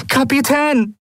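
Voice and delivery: high, desperate cry; desperate shouted appeal; desperate urging. A narrator's reading. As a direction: plead urgently with the captain. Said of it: "drängte seine erste Offizierin verzweifelt".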